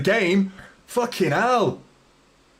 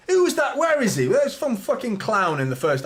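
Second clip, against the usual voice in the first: angry outburst; 5 semitones higher than usual. Real, not acted. Fan turning on a heckler in the crowd, angry outburst. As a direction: whip round on the heckler.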